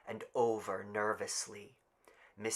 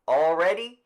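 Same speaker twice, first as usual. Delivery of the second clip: higher, louder call to the crowd; raised official call; 7 semitones higher, 11 dB louder than usual. Acted. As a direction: call it out to everyone. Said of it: "he called".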